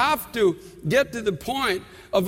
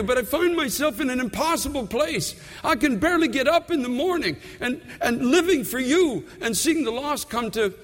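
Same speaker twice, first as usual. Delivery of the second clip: pleading prayer; 4 semitones higher than usual. Retold or imitated. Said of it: "and say".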